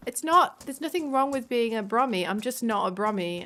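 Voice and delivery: indignant protest. Real, not acted. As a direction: jump in to set the record straight.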